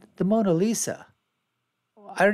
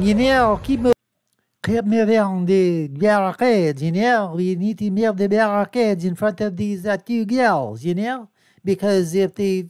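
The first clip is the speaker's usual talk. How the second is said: loud voice-over of a bored guard; lightly voiced guard repeating orders; mock security guard; 3 semitones higher, 4 dB louder than usual. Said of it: "I'm gonna voice over this thing here".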